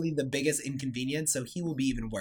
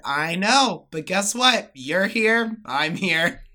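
higher, louder soothing grandma; imitating grandma; 6 semitones higher, 8 dB louder, much slower than usual. Grandma calming grandpa, higher and louder. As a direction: reassure him like a patient wife. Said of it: "she said".

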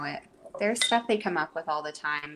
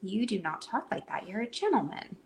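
softer, measured parental correction; re-enacted proper mom telling-off; composed mother's scolding; 3 semitones higher, 4 dB quieter than usual. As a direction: gently admonish a small child. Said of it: "in my normal state of mind".

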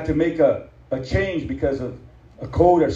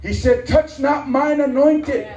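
stern warning; 10 semitones higher, slower than usual. Acted. Pastor warning the congregation against cursing God's people, slow stern preaching. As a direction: lay it down slowly like a warning.

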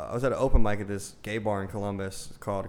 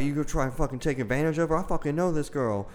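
mock angry yell; 5 semitones higher than usual. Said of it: "he started yelling at me".

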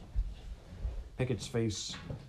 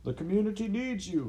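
shout; 12 semitones higher than usual. A narrator's reading. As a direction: call out to the whole hall. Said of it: "he shouted".

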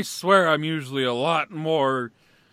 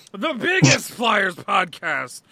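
proud shout; slower than usual. Real, not acted. Proud host boasting record show.

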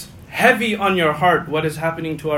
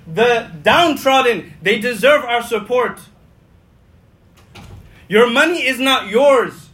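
impassioned proclamation; 4 semitones higher, 4 dB louder than usual. Retold or imitated. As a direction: proclaim it boldly to the crowd, stretching key words. Preacher voices Prophet's public proclamation.

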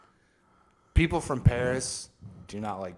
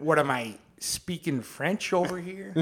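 put-on Chicago wiseguy accent, pitched up, half laughing; classic Chicago accent; 5 semitones higher than usual. Riffing on French Canadians to co-host, Chicago accent. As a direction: play it as a Chicago tough guy's accent. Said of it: "It's fucking classic Chicago".

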